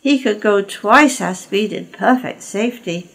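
mocking Caldy. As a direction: rub it in with glee.

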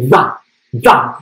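"da" repeated with a lisped TH at the start. Acted. Teacher drilling her pupil, "da" lisped as TH. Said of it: "You must lisp the T H".

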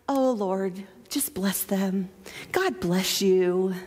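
low, slow, near-whispered blessing; earnest prayerful God bless you; sincere blessing. Pretend. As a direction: bless them gently, meaning every word. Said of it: "really godly sense".

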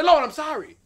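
a wailing plea for forgiveness, building to a long drawn-out cry; shouted repentance prayer. Acted. Preacher models the sinner's prayer for the congregation, shouting. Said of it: "all you have to do is say".

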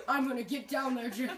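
lightly voiced scolding mother, through giggles; mock-stern mom threat, half laughing. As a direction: play a mother about to scold. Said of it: "I'm like a mother going to, like, scold my child".

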